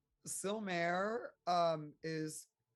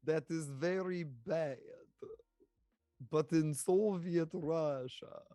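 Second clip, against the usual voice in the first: hammed-up generic Eastern European accent; Russian accent. Player mocking their own attempt, Russian accent. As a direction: put on a deliberately bad Russian accent. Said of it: "can you do a Russian accent?".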